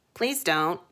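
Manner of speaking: a hint of a scared boy begging. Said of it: "begged Ernest".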